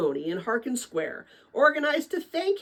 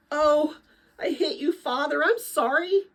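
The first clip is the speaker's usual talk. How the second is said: put-on startled sorry boy; 6 semitones higher than usual. Dune apologizes after hitting father.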